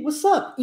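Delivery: "What's up?" with T and P dropped, said as os-a; casual what's up. Shown as a demonstration. Teacher demos how natives really say it. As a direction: swallow the T and the P in "What's up?". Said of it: "Engole o P".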